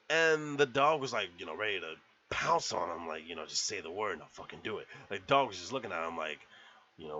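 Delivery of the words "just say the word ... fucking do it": low, quick, hushed dog's inner voice; eager attack dog. Retold or imitated. Dog waiting on Cliff's command, low and eager. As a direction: lightly voice a dog itching to pounce.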